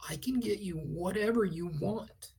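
imitating an insistent pusher, pitch lifted. Little man pressing his offer on the musician, insistent. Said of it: "he kept insisting".

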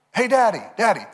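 put-on high, sing-song call of a small child; mock kid voice calling Daddy; little girls calling. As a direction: call out like an excited little daughter. Daughters calling dad from kitchen.

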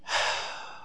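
long, breathy sigh of dread; weary sigh. Real, not acted. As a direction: let out a heavy, exasperated sigh. Dreading the wrestler's promo.

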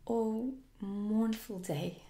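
slow, loud mournful wail; lament. A narrator's reading. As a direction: draw it out as a lament. A lost boy laments Wendy's death.

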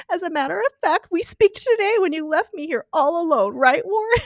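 high, teasing tipsy flirt. Retold or imitated. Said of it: "She's like".

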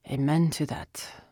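rasped, worn voice; raspy. Acted. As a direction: rasp it out. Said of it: "Sal rasped".

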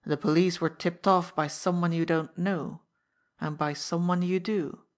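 through gritted teeth. Acted. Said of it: "said Laroque between his teeth".

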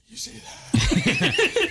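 high, slow, rasping mummy croak. Pretend. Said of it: "You sound like a mummy".

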